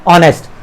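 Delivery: ऑनेस्ट said with a silent h, opening on the vowel ऑ; teacher sounding out ऑनेस्ट. Shown as a demonstration. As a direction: say ऑनेस्ट starting straight on the vowel. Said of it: "इसको बोल के देखना है".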